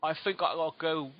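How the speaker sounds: th said as f in "think", "fink"; South London accent. Shown as a demonstration. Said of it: "South London, uh, accent where they take the T H".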